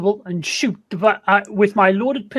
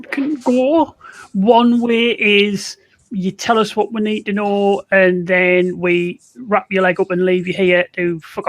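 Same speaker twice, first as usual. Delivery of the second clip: forceful intimidation. Acted. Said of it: "that sounds like a forceful".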